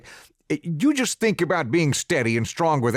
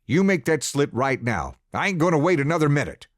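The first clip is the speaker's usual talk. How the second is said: angry father; 3 semitones higher, 3 dB louder, faster than usual. Acted. Father yelling orders at son.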